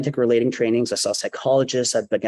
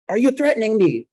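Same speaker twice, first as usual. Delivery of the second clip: high, raised-voice confrontation; retold angry challenge; 10 semitones higher, 3 dB louder than usual. Border agent to the man who cursed them, angry challenge. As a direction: challenge him sharply, pitched well up.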